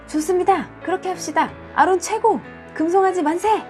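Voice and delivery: high excited cheers; cheering crowd. Acted.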